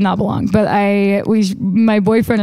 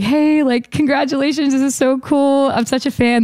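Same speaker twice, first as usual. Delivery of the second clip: mildly gushing, higher-pitched fan voice; 6 semitones higher than usual. Retold or imitated. Songwriter acting out meeting the star, lightly gushing fan. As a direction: lift the pitch and congratulate like a fan, easing down. Voicing what she hoped to say.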